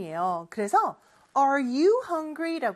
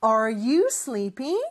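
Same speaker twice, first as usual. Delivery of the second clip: slow repeat-after-me; much slower than usual. Shown as a demonstration. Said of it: "다시 한 번 더 큰 목소리로".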